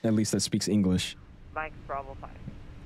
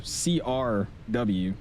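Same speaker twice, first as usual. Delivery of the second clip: each letter spelled out slowly; slow correction; much slower than usual. Shown as a demonstration. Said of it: "Or, sorry".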